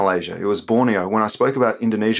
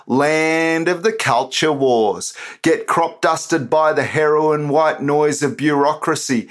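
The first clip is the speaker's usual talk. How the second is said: spoken word performance; 3 semitones higher, slower than usual. Acted. Poet performing his political poem for the podcast, declamatory and sarcastic.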